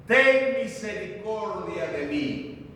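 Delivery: slow, drawn-out imitated plea; súplica clamada. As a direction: stretch out the cry for mercy. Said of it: "pedía misericordia al Hijo de Dios". (súplica imitada, lenta y prolongada)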